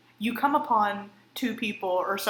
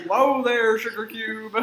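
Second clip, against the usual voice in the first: mock soothing; 2 semitones higher, 9 dB louder, slower than usual. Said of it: "backing off from arguing couple".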